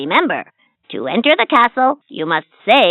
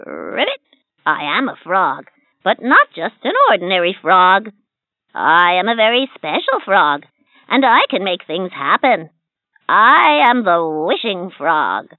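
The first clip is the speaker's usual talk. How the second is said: proud little frog, slowing on his name. Acted. Frog character voice.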